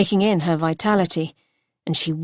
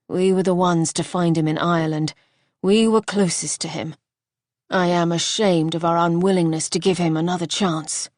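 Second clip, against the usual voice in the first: firm husband. Acted. Husband insisting they help her brother, firm. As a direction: lay down the law. Archer voiced.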